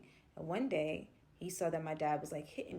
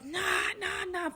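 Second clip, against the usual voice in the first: freaking out; 9 semitones higher than usual. Retold or imitated. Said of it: "he is screaming".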